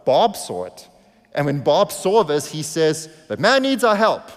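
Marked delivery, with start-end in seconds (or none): 3.3-4.2 raised, higher voice, urging to stop; loud retold urgent call from the driver's seat; Bob's urgent call. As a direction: call out that someone needs help.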